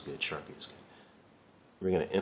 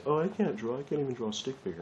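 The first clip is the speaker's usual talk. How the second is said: mock complaint; 7 semitones higher than usual. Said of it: "People say".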